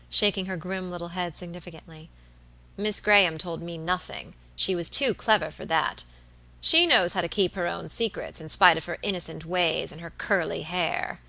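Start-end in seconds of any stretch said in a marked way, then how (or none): 2.8-11.2 spiteful. Acted. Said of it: "Miss Tonks added spitefully".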